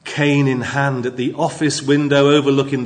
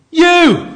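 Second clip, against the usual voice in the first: "you!" burst out much higher and louder; emphatic you; 7 dB louder than usual. Shown as a demonstration. Preacher reads the psalm with emphatic "you!". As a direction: hit "you!" hard and high like a sudden reveal. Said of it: "It's very emphatic".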